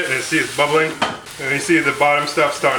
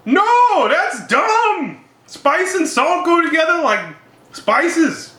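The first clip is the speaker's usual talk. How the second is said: much higher, louder indignant replay of her own comeback; exasperated retort; 12 semitones higher, 3 dB louder, slower than usual. Retold or imitated. Telling the spice vendor that salt matters, indignant. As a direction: scoff at the vendor's no-salt claim.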